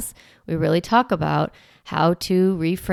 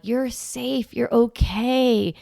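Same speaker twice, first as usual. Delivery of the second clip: soothing calm voice; 4 semitones higher, much slower than usual. Shown as a demonstration. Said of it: "in a soothing, calm voice".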